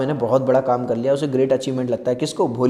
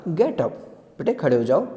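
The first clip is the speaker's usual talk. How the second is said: friendly tone. Shown as a demonstration. Teacher gently asking Bholi to stand, friendly. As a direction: coax the child kindly. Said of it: "बस friendly tone में बोला".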